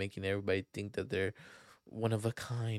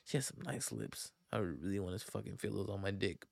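whispered inner thought; 3 semitones lower, 10 dB quieter than usual. Retold or imitated. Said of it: "I'm like".

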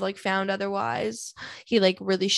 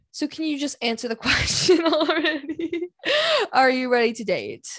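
high, pushy mock asker; mock impatient voice; 6 semitones higher than usual. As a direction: poke at herself impatiently. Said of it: "reads her own question aloud".

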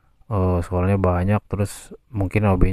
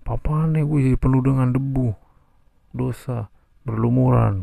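high yelling as a mock-angry classmate; 6 semitones higher than usual. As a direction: ham up the dusty kid's angry yell. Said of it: "ada yang marah".

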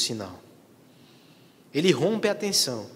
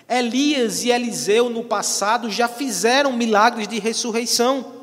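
raised preaching; 7 semitones higher, 5 dB louder than usual. Acted.

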